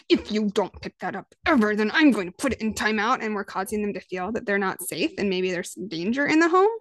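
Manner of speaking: a mildly menacing parent threat; lightly voiced threatening parent; scary voice. Parent threatening a child over toys, mildly scary. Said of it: "sorry for that scary voice".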